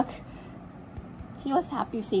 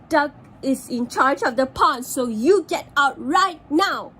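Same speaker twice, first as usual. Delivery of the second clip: bossy duck; 2 semitones higher, 5 dB louder than usual. Acted. Duck orders frogs out.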